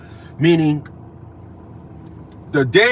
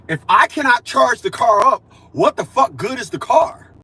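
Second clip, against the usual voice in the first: shouting about the useless car; angry outburst; 3 semitones higher than usual. Real, not acted. Ranting to viewers about his dead electric car, shouting. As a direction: let the frustration boil over.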